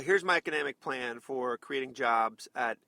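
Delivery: dull, halting imitation of a policy pitch; mock boring speech. Host imitating a candidate nobody will cover, yawn-inducing drone. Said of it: "everybody's gonna, gonna yawn".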